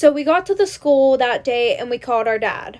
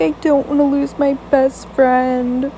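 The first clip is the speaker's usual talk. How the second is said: mock tearful plea; slower than usual. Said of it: "started crying".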